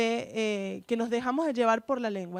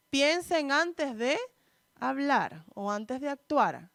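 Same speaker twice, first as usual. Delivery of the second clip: slow, drawn-out quoted advice; slow reminder; slower than usual. Shown as a demonstration. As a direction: stretch each word like a warning. Quoting common advice slowly.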